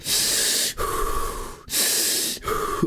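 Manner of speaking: long, hard breaths through pain; imitated pained, drawn-out exhales; strained breathing. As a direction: breathe heavily to hold it together. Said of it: "trying to hold it together".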